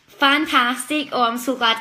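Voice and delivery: slow, loud, stretched-out fantastic; delighted. Real, not acted. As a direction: savour the good news. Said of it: "That's really cheered me up".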